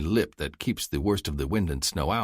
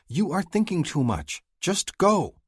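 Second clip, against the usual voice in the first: higher, grinning sister's voice, bossy; teasing sister Farley; 12 semitones higher, 3 dB louder, slower than usual. Acted. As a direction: play the cheeky younger sister nudging her brother. Farley pushes him.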